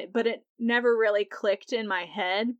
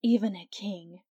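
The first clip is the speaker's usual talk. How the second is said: breathy voice. Retold or imitated. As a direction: breathe the words out to tempt the king. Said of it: "in this breathy voice".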